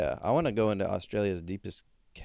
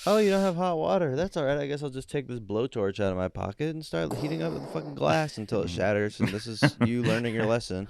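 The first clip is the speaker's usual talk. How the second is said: mock menace; 4 semitones higher than usual. Customer threatens bar staff with a blowtorch, mock-polite menace. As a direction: play the customer calmly promising mad revenge.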